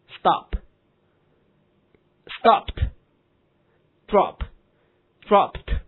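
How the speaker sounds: "stopped" and "dropped" ending in a t sound; slow, high drill, "stopped", "dropped" closed with t. Shown as a demonstration. Teacher drilling doubled-consonant verbs, "dropped" ending in t. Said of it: "所以它读音是".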